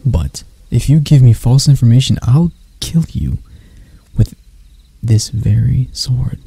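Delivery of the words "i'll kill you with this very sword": slow, menacing promise to kill; deliberate, drawn-out menace; slow threat. Acted. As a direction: lean into the threat, slowly. Threat to prisoner in cell.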